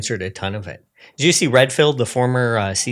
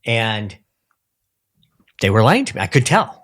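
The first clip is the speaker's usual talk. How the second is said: hesitant pundit imitation, rising at the end; a hint of an imitated commentator; Tucker. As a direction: lightly mimic a commentator, building to mock conviction. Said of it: "That's a pretty good Tucker impression".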